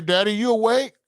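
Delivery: high, lightly voiced little boy; little son at dawn asking if dad is awake; son waking dad. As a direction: ask like a kid at dawn.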